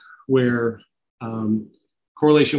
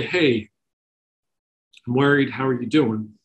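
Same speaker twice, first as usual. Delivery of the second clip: gentle, concerned "Hey, I'm worried, how are you doing?"; caring check-in. Shown as a demonstration. Parent texting a child, gentle and concerned.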